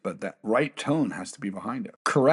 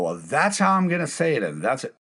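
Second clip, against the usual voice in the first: brash leader; 5 semitones higher than usual. Retold or imitated. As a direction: toss it off like a brash boss who won't budge. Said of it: "the most brashest leaders possible".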